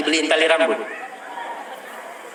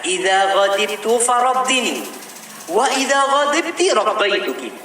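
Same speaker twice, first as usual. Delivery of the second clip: kutipan Arab; 6 semitones higher than usual. Retold or imitated. Mengutip ucapan berbahasa Arab.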